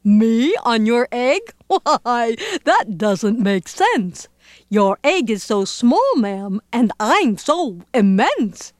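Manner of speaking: amused, chuckling between phrases; laughing elephant. Acted. Elephant refusing silly request, amused laughing. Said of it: "The elephant laughed".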